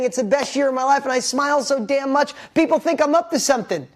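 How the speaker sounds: high-pitched, delighted declaration; gushing about a wonderful year. Acted. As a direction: proclaim it with rising glee. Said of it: "Put yourself in this spot of saying".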